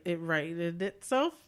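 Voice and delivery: slowed down, tentative phrasing; slow down over "righted itself", questioning rise; slow, unsure wording. Real, not acted. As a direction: feel out "righted itself" slowly, ending on a rise. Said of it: "it sounds weird if you say it slow".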